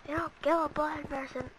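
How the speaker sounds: high, amused grumble; whining protest. Real, not acted. Repeats protest, laughs after.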